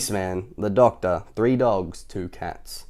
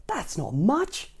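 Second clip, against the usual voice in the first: Mister Tickle; 10 semitones higher, 5 dB quieter, much slower than usual. Acted. Tickle sulking, high slow.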